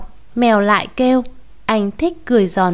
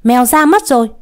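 alarmed report; 2 semitones higher, 4 dB louder than usual. Acted. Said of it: "trợn mắt trợn mũi nói".

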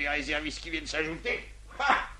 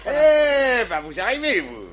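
scolding; 5 semitones higher, 8 dB louder, slower than usual. Acted. Adjudant scolding a late recruit.

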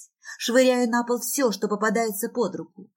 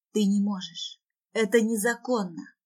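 mild, plaintive protest; understated helpless whimper. Acted. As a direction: whine it weakly, lightly acted. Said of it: "скулю".

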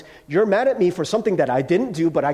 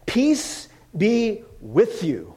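gentle blessing; 4 semitones higher, much slower than usual. Acted. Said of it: "because he says those words".

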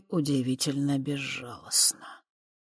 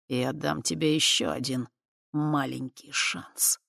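friendly; 4 dB quieter, slower than usual. Acted. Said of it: "Его голос источал дружелюбие".

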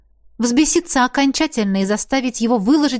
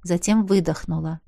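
ordinary delivery

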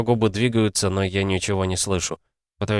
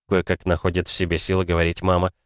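usual speaking voice

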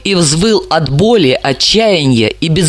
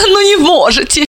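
mock laugh with stress on не, pitch jumping higher; 11 semitones higher than usual. Dalila mocking Anton's excuse, stressing "не". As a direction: sneer "не можете" with a laugh. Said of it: "издевательски рассмеявшись".

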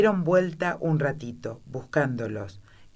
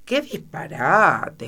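slow, firm and louder; 3 semitones higher, 6 dB louder, much slower than usual. A narrator's reading. Alicia to the queen, slow firm loud retort. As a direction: stand up to her, word by word. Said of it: "exclamó Alicia en voz alta y con mucha firmeza".

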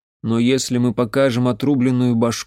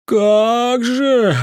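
put-on high, loud, drawn-out drunken scoff; the drunk uncle scoffing at the mage; 10 semitones higher, 5 dB louder than usual. A narrator's reading. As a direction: drawl a scornful "Как же". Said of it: "протянул мужик".

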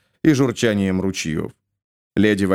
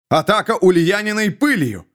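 1 shouting; 6 semitones higher than usual. A narrator's reading. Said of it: "кричал лорд Эммон".

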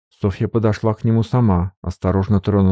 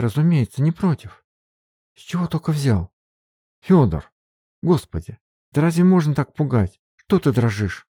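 put-on higher young woman's voice, scolding in a fright; Sofia's voice, alarmed; 8 semitones higher than usual. A narrator's reading. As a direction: scold him out of your own fear, voice up high. Софья в испуге бранит Фёдора. (голос Софьи, высоко, встревоженно и сердито)

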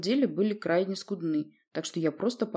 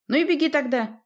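loud, high gruff bark; 10 semitones higher, 5 dB louder than usual. A narrator's reading. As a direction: snap it at the sailor. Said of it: "рявкнул на него боцман".

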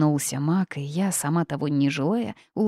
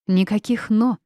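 firmly cut off; 5 semitones higher, 5 dB louder than usual. Acted. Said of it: "припечатала бабушка".

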